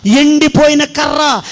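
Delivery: slow shouted ఎండిపోయిన కర్ర; emphatic shout. Real, not acted. Preacher to congregation, slow emphatic shout. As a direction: hammer each word out slowly. Preacher stresses the dry stick.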